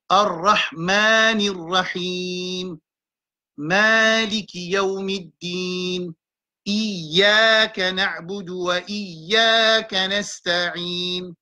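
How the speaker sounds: slow, drawn recitation. Shown as a demonstration. Teacher reciting the Fatiha slowly for the class. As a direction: recite slowly, letting vowels stretch.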